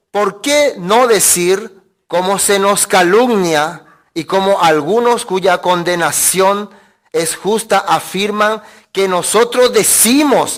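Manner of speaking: slow, deliberate scripture reading; lectura bíblica. Acted. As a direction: read the verse out phrase by phrase, drawn out. Lee el versículo ocho en voz alta. (lectura pausada del versículo)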